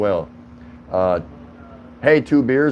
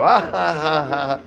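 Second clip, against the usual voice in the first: mock laughter; 6 semitones higher than usual. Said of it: "expect them to go".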